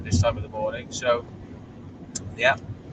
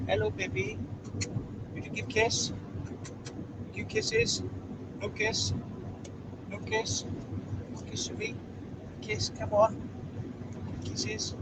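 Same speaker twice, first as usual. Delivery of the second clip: pet talk; 8 semitones higher, 7 dB quieter than usual. Real, not acted. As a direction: coax the dog for a kiss in a high little voice. Coaxing his dog for kisses.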